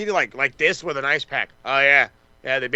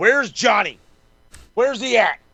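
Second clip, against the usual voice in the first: acted-out yelling, high and loud; 7 semitones higher than usual. Retelling own reaction during a wrestling segment: imitating own yelling. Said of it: "I'm, like, yelling".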